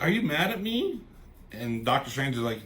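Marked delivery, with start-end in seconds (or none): 0.0-1.0 high-pitched imitated woman; anxious question. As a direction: ask in a high voice, worried about the answer. Acting out her timid question.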